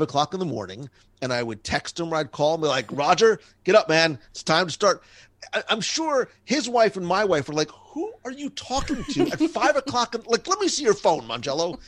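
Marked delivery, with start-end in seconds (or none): 2.9-5.0 louder, pushing coach call; mild mock of rallying a sleepy friend; rousing wake-up call. Host waking his friend at five to write, rousing. 7.7-11.8 high, lightly voiced suspicious wife; a hint of a nagging spouse. Wives questioning the five o'clock calls, lightly mock suspicious.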